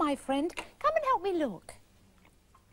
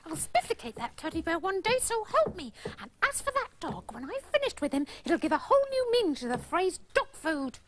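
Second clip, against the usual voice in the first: muttered threats; 2 semitones lower than usual. Acted. Girl threatening bear and dog to herself, muttered grumbling. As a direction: grumble darkly under your breath.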